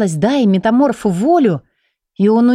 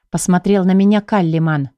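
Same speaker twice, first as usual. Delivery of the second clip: ordinary delivery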